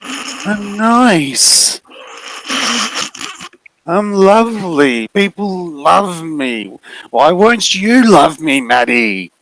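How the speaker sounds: high, very slow wheedling; needy figure. Acted. The figure pleading with Maddie to love it, slow and high. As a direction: coax her, hurt and needy.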